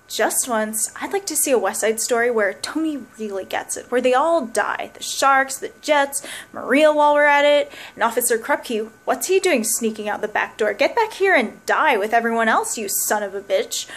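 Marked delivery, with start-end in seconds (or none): 3.9-13.9 building comic rant. Acted. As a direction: pile it on with mounting glee. Escalating fantasy of musicals ending.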